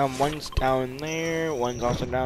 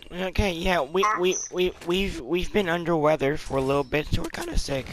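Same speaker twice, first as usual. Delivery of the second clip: lightly put-on little-kid voice, higher pitched; voice trolling; 5 semitones higher than usual. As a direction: pretend to be a younger kid, pitched up. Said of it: "like, um, a voice trolling".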